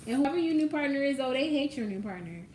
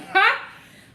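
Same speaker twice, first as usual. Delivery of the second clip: mock outraged outburst; 12 semitones higher, 12 dB louder than usual. Mimics the angry parent's outrage.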